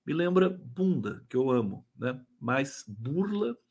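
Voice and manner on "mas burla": burla said slowly and softly. Shown as a demonstration. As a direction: stretch burla out, soft and gentle. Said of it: "uma coisa suave".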